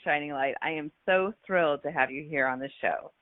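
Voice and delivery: ordinary talk, nothing marked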